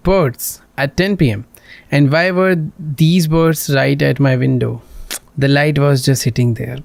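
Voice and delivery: slow, drawn-out read of both sides; lightly acted accusation and excuse; acted argument. Girl accuses the player of spying, slow acted read. Reads a game argument aloud.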